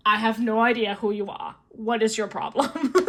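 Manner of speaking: lightly voiced annoyed man, amusement creeping in; mock irritation, half keeping character; irritated Invisible Man. Invisible Man snubbing the fangirl, mildly irritated put-on voice. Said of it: "No, and he's really irritated".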